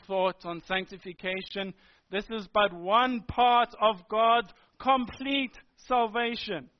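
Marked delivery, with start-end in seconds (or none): 4.1-6.7 "complete" set apart and given weight; emphatic, measured "complete"; stress on complete. Real, not acted. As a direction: lean deliberately on the word "complete". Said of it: "I emphasize that, that word complete".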